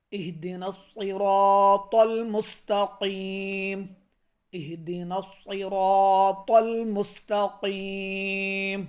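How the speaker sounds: slow chanted tajweed recitation; slow melodic Quranic recitation. Acted. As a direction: recite slowly with a heavy ص. Recites the verse.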